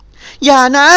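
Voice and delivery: a startled yelp that breaks high; cry out in panic. Acted. Nilda cries out as he pulls her hand close, high and loud. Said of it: "หล่อนร้องเสียงหลง".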